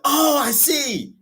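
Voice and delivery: very high, slow words collapsing into laughter; laughing. Retold or imitated. Host laughing through the timeshare guy's reply. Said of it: "The timeshare dude was like".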